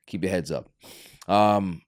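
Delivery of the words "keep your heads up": soft whisper, almost no voice; whispered encouragement. Real, not acted. Whispering comfort to families hit by the hurricane. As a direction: breathe the words out gently to the listeners.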